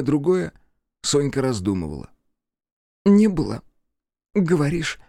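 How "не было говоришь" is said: higher, louder sarcastic echo; mocking repeat. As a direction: throw his words back at him. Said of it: "повторила за баритоном она".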